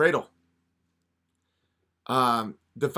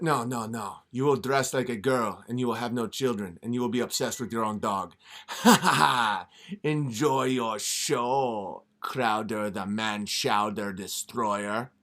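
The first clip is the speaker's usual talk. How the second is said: lightly lower, sly devil voice; a hint of a scheming devil; devil tempting; 3 semitones lower than usual. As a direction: coax him like a smooth devil. Devil makes deal.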